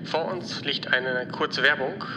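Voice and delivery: calm airline captain over the intercom; captain announcement. Acted. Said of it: "hier spricht Ihr Kapitän".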